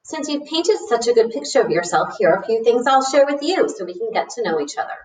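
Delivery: lightly voiced, pleased teacher; welcoming teacher. Teacher replying to Arthur's letter, lightly voiced welcome. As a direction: read it as a teacher welcoming a new student.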